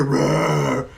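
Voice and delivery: drawn-out mock roar; imitated bear roar. Player hears a bear to his left, imitated roar. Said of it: "and I hear".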